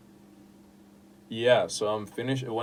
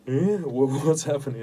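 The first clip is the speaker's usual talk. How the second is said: laughing; 5 semitones higher, 7 dB louder than usual. Real, not acted. Laughing at own vague genre.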